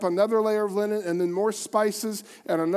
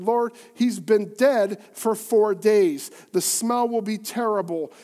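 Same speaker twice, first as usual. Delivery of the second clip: protesting; 4 dB louder than usual. Acted.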